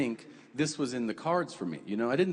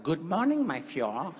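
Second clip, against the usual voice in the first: German doctor; 2 semitones higher than usual. Retold or imitated. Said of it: "his doctor was like".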